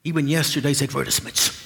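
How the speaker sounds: put-on a light English accent for the senior demon; lightly voiced posh English uncle advising his nephew. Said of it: "In an English accent, it said".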